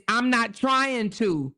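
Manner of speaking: slow, whiny plea; whining voice. Retold or imitated. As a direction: whine it like a wronged wife. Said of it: "in a whining voice".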